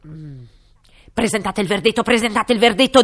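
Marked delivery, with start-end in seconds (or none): 1.1-3.0 loud, high royal command; booming king. Acted. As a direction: bellow it like a pompous king. King's voice in story. (re tonante)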